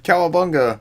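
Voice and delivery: a half-strength arcade battle cry; imitated game yell. Retelling the game's characters still hitting him, mild mock yell. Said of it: "and they yelled".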